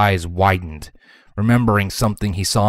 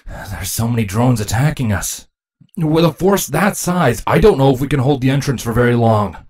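lightly voiced anxious drone reporting; worried drone soldier; 4 semitones higher, 4 dB louder than usual. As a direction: report a losing battle with mounting worry.

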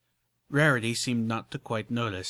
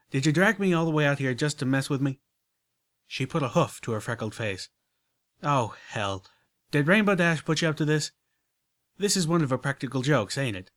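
higher, louder, exasperated country voice; annoyed country mare; 4 semitones higher, 4 dB louder than usual. Acted. Applejack suspecting a prank by Rainbow Dash, annoyed country voice. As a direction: demand to know who put them up to it.

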